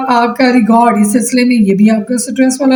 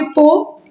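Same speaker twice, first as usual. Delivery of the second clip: "पो" drawn out as one separate syllable; "पो" held like a teacher counting syllables; 4 semitones higher than usual. Shown as a demonstration. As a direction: sound out "पो" on its own, slowly. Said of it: "एक आपका syllable बन गया".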